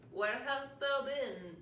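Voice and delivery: hammed-up stern Puritan; Puritan parent. Puritan parents in archaic speech.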